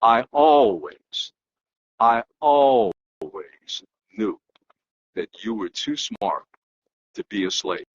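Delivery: put-on slow, fading voice of an old man on his deathbed; dying master's last words. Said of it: "his almost last words in this life to Frederick Douglass were".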